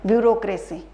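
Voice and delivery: letters spelled out slowly one by one; slow spelling out. Shown as a demonstration. Teacher spelling bureaucracy for students, slow and deliberate. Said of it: "ब्यूरोक्रेसी भी ठीक है".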